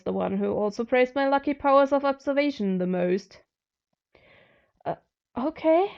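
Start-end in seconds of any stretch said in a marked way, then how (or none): 4.8-5.9 sighed. A narrator's reading. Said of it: "I sighed".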